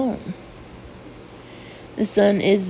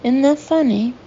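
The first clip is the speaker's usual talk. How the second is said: exclaiming; 5 semitones higher, 4 dB louder than usual. A narrator's reading. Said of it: "the woman exclaims".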